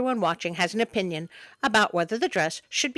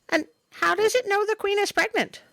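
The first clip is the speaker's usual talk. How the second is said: incredulous; 10 semitones higher than usual. Real, not acted. Incredulous aside about the frog.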